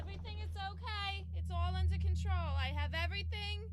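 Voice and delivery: high, loud, strained insistence that all is fine; forced calm. Acted. Becky panicking, pretending calm.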